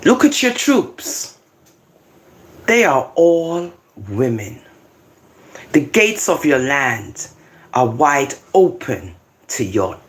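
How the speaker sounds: slow, phrase-by-phrase Bible reading; measured, solemn recitation; scripture reading. Acted. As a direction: read it out deliberately, pausing between words. Reads scripture aloud.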